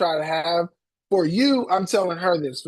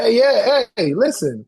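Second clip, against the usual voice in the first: higher, louder, pumped-up pitch; hyped-up intro; 5 semitones higher, 4 dB louder than usual. Retold or imitated. Coach showing the client a hyped self-intro, excited. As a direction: sell it like you just graduated and can't wait. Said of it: "See, that's your thing right there".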